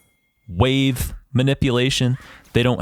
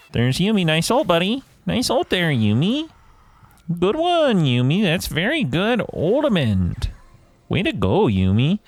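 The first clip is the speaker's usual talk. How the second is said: sarcastic, high sing-song praise; mock praise of a teammate's ultimate; 5 semitones higher than usual. Real, not acted. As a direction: praise her while mocking.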